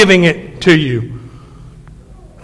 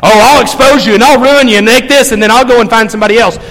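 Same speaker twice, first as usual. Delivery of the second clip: spiteful hurt spouse; faster than usual. Retold or imitated. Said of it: "they don't care about that last half".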